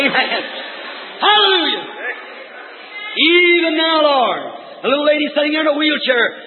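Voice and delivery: high, sustained revival preaching; fervent preaching. Acted. Preacher urging faith on the sick in the prayer line, fervent preaching. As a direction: preach it high, holding out "even now".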